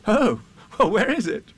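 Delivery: put-on high, loud boyish question; impatient boy. A narrator's reading. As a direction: press him for the answer. Boy impatient to see boat.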